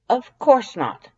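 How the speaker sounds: high, loud, slow huffy denial; indignant denial. Acted. Papyrus denying asking the stranger out, loud. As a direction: scoff it off indignantly.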